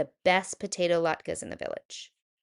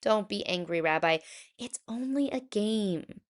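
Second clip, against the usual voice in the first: Bubba Braina; 2 semitones higher than usual. Acted. Old baker soothes.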